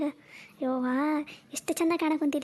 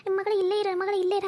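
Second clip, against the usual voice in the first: mock quote; 3 semitones higher than usual. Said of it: "ಅಂತಿದ್ದಿ".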